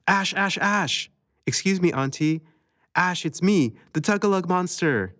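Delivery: high, sing-song call of a pretend monster; a hint of a silly monster voice; playful monster game. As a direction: tease her as the playful monster. Child plays monster game with Ash.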